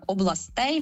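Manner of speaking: «областей» з наголосом на -тей; виділити «областЕй» з наголосом на закінченні; stress on ending. Shown as a demonstration. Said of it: "Тільки родовий відмінок". («областЕй», наголос на закінченні)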